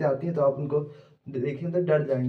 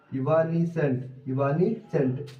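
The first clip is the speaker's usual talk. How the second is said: slow syllable by syllable; much slower than usual. Shown as a demonstration. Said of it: "आप इसको break करके पढ़िए".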